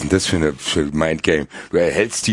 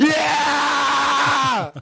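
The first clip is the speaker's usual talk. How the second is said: high, cracking cry of joy; ecstatic shout. Real, not acted. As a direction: scream with pure joy. Ticket confirmed, ecstatic scream.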